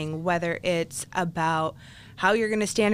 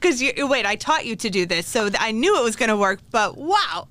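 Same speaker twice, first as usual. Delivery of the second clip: excited; 3 semitones higher, 5 dB louder than usual. Real, not acted. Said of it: "host playfully scolding guest".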